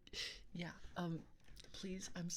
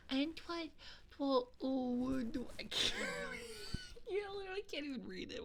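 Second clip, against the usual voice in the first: flustered laughing; 10 semitones higher than usual. Real, not acted. Flustered laughing through her reading.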